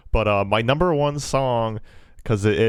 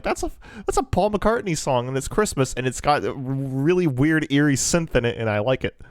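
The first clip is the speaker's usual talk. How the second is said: excited; 5 semitones higher than usual. Retold or imitated. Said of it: "I'm like".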